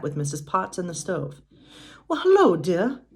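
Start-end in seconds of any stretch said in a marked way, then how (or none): 2.1-3.0 higher, louder sing-out greeting; wołanie na powitanie. A narrator's reading. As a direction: call out a hello across the kitchen. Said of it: "called out together".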